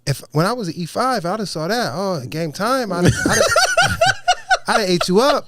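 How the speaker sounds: high-pitched imitation cracking into laughter; amused retold boast. Chief boasting about his E five days, laughingly imitated. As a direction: brag as the chief, losing it laughing.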